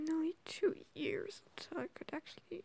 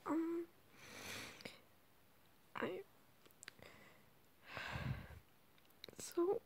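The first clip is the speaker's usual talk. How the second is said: whispering. Real, not acted. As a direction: whisper late at night. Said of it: "I'm sorry if I have to whisper".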